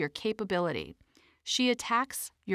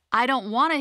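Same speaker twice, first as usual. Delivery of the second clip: a bit higher and louder, whiny rise; Hilda's voice; 3 semitones higher, 5 dB louder than usual. Shown as a demonstration. Narrator voicing Hilda, mildly whining about effort. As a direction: say it like a reluctant kid. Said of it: "Hilda justifies inaction".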